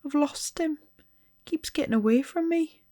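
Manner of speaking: a hint of a boy's wail. A narrator's reading. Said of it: "he wailed".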